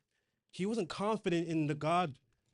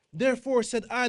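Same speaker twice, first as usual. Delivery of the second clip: rising proclamation; 7 semitones higher, 9 dB louder than usual. Acted. Scripture reading rising to a climax.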